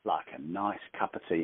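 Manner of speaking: put-on slow, savoured English accent; English tea-time accent. Sharing a bit of England over a cup of tea, English accent. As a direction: draw it out like a contented English tea drinker. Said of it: "share a little bit of England with you".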